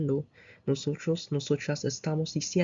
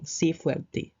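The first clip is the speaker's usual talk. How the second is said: encouraging command; 3 semitones higher than usual. Shown as a demonstration. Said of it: "like if you tell somebody to be strong".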